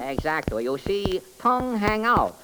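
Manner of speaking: sing-song comic detective character. Acted. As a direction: play the bumbling detective, chirpy. Detective explains.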